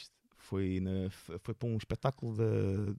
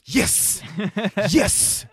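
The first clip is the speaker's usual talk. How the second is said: higher, louder breathy cheer of relief; triumphant yes; 8 semitones higher, 8 dB louder than usual. Retold or imitated. Comedian reliving joy at not stuttering, excited cheer. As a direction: punch the air with it.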